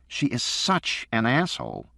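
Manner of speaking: put-on high, slow boy's voice, resentful; a kid griping about his sister; complaining boy. A narrator's reading. Son complaining to his father about his sister, resentful.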